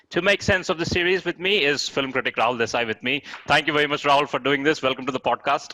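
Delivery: lightly mock British accent; host keeps up a playful British accent; put-on British accent. Host welcomes the critic in mock British accent. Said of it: "not a bad British accent".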